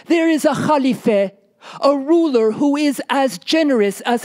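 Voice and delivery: a storyteller voicing a wife with a new idea; hopeful wife. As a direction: urge your husband toward the plan. Wife proposes a plan.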